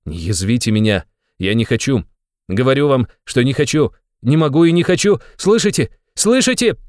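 building from tense refusal to high shout; shouted protest. A narrator's reading. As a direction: escalate to a furious, high cry. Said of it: "крикнул он, стукнув опять кулаком".

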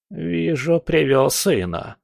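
slow gumming of the words; toothless mumble. Acted. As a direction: mumble it like a toothless old woman. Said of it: "прошамкала бабка".

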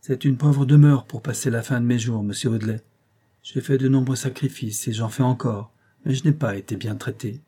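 1 surly whine. Acted. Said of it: "de la même voix hargneuse".

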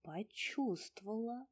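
slow, musing "почувствовала"; slow, thoughtful echo; slowly. A narrator's reading. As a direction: say it slowly, weighing the word. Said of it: "медленно сказала Таня".

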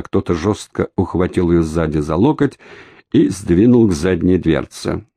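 ordinary delivery

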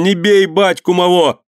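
put-on high, desperate child's plea; pleading boy's cry. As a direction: beg for his father, high and frantic. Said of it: "закричал он". (высокий отчаянный детский крик)

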